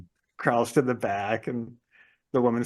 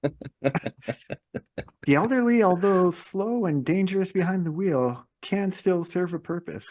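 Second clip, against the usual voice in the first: mock solemn movie quote; 5 semitones higher, slower than usual. Quoting a movie narrator line.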